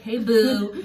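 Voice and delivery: high, bright-voiced "hey boo" as if nothing happened; breezy sweet greeting. To her partner the morning after a fight, sing-song innocent. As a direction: chirp it innocently, fight forgotten.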